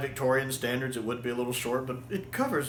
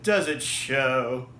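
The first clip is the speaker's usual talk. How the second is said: P=A; slow proud quip; much slower than usual. Retold or imitated. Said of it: "Troughton's just like".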